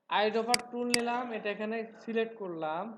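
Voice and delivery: slow, step-by-step demo; walk them through it slowly. Shown as a demonstration. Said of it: "আরো slow ভাবে বলবো?". (ধীর গতিতে ধাপে ধাপে বলা)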